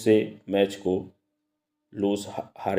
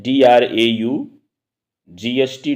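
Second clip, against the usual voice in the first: slow, deliberate teacher spelling; much slower than usual. Shown as a demonstration. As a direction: spell it out letter by letter, slowly. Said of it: "पढ़ते हैं".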